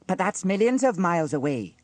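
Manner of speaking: put-on high, loud boyish protest; incredulous boy. A narrator's reading. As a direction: object in disbelief.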